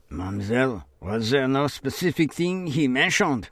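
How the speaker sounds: remembered probing question; lightly voiced official asking; questioning officer.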